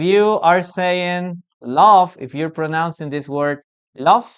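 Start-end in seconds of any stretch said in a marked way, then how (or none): 1.6-4.3 LOVE ending in F; wrong pronunciation. Shown as a demonstration. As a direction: say LOVE as "luff". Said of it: "then you have to, you have to change".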